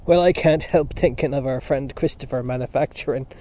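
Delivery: a changed voice barely holding back laughter; about to laugh. Acted. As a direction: let the laugh start to break through. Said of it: "he broke into a fit of laughter and coughing".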